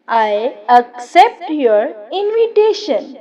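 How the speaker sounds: slow. Shown as a demonstration. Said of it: "example sentence repeated twice".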